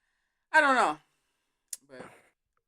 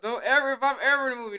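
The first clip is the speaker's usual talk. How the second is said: loud, raised-pitch retold outrage; mock indignation; 6 semitones higher, 10 dB louder, faster than usual. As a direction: warn them off, playfully indignant. Acting indignant reaction to the stunt.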